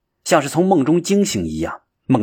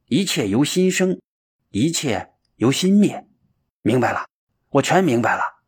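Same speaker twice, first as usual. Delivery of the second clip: 顿悟喊叫; 2 semitones higher than usual. Acted. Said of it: "喊叫道".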